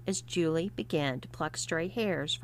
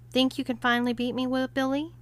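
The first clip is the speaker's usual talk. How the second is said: supremely confident; 6 semitones higher, faster than usual. Acted. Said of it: "with a supreme confidence".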